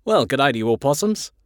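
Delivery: put-on nervous Australian accent. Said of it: "talking in an Australian accent".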